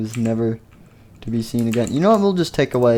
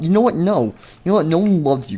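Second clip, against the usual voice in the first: mock outburst; 6 semitones higher, faster than usual. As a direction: lash out in pretend exasperation. Character rejects the newcomer.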